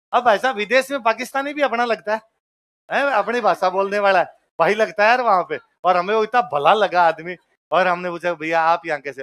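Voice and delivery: जोश में ज़ोर से बोलना; excited. Real, not acted. Excited about meeting the Pakistani. (उत्साह से, काफ़ी तेज़ आवाज़ में)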